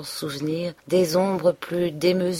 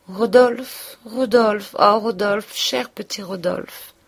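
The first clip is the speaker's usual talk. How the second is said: put-on higher, louder childlike calling through tears; 4 semitones higher, 4 dB louder, slower than usual. A narrator's reading. Emma crying to Rodolphe in a childlike higher voice. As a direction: plead his name like a child. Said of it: "d'une voix enfantine, malgré de grosses larmes".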